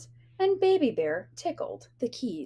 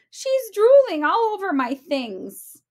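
littlest bear voice; 8 semitones higher, 6 dB louder than usual. Acted. Baby Bear complains.

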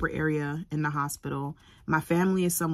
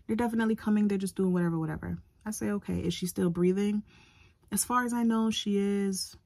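lightly voiced nurse, pitched up; a hint of a soothing nurse, pitched up; high reassuring nurse voice; 4 semitones higher than usual. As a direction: reassure the patient, a little higher.

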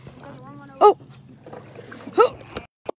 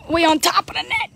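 excited call; 4 semitones higher than usual. Real, not acted. Excited call over catching the net.

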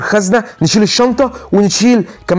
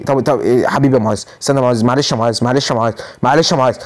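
low-pitched pitiful begging; put-on downtrodden plea; mock poor beggar; 5 semitones lower than usual. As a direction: play broke and pleading for sympathy. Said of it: "ونبدا بقى في مود الغلابه".

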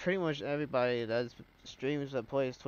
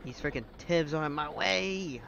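annoyed, higher, louder outburst; frustrated shout; 4 semitones higher, 4 dB louder than usual. Real, not acted. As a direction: yell it in frustration. Storm chaser blocked by tornadoes.

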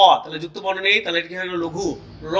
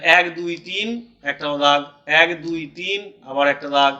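slow counting in threes; 2 semitones lower, slower than usual. Shown as a demonstration. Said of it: "তিনটে তিনটে করে আমরা ভাগ করবো".

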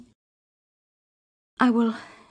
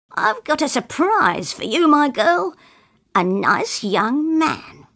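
shouting father; 2 semitones higher than usual. Acted. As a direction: shout the news at her, taunting. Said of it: "My father began to shout".

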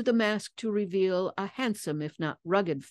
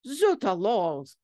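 bellowing; 2 semitones higher, 3 dB louder, slower than usual. A narrator's reading. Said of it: "came the bellowing reply".

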